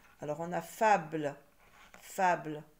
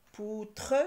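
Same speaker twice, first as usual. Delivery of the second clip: "Poutre" split into "pou" and "tre"; deliberate two-beat "Poutre"; syllable by syllable; 3 semitones higher than usual. Shown as a demonstration. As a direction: hold "pou", then sound a full "tre". Teacher trying out syllables.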